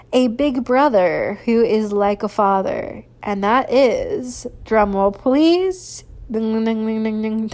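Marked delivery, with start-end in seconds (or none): 4.6-7.5 slow, drawn-out call for a drum roll then sung dings; mock drum roll. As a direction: announce it like a half-hearted drum roll. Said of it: "That was not a good drum roll".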